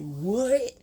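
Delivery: sharp, high startled what; surprised yelp; shocked what. Retold or imitated. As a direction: blurt it out in disbelief. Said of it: "And I'm like".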